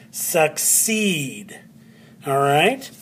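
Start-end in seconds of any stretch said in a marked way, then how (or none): 0.1-1.6 succeed with CEED long and falling; stress on second syllable. Shown as a demonstration. Teacher confirming where the accent is, second syllable stressed. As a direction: put the weight on CEED. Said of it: "that is where the accent is".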